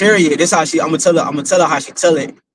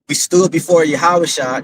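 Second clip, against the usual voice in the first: put-on slow, deliberate child's retelling; imitating her slow telling. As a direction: spell it out slowly the way she did. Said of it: "This is exactly how she said it".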